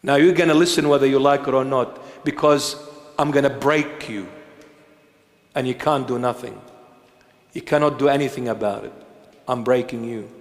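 a hint of God out of patience; stern God. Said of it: "he'll say".

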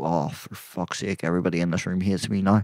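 imitating someone cringing after a slip; mortified mutter. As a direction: groan it under your breath, ashamed. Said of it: "Other people go".

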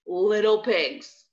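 drawn-out wolf call; slow wolf voice. Acted. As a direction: call it slowly, luring. Wolf calls slower.

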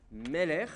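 Meler stressed on the first syllable, me-; Meler, weight on me, second syllable light. Shown as a demonstration. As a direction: hit the opening syllable of Meler. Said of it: "l'accent est bien sur la première syllabe".

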